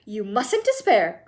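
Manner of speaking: eager cry. Acted. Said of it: "cried Mister Wonka".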